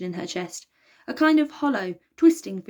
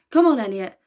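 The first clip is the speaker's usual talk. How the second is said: panting; 3 semitones higher, 8 dB louder than usual. A narrator's reading. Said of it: "panted Zeus".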